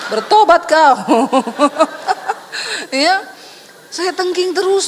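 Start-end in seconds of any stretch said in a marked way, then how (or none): 0.1-1.0 louder, laughing through it; laughing rebuke. Retold or imitated. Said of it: "kata Roh Kudus gini". 1.0-2.8 a real hearty laugh. Real, not acted. Preacher laughs at own joke.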